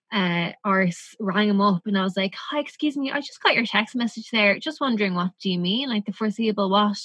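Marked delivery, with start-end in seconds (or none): 2.3-7.0 a touch of fake courtesy on the phone; mock polite phone call. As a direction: put on a falsely polite tone to the boss. Retelling her call to the boss.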